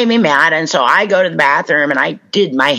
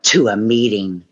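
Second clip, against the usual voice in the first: cool, clipped indignation; indignant; 2 semitones lower than usual. Retold or imitated. Wife telling her husband where she is going, indignant. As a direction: say it like you owe him nothing. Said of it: "my indignant".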